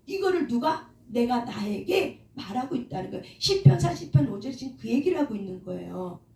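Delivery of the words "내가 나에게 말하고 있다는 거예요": ordinary talk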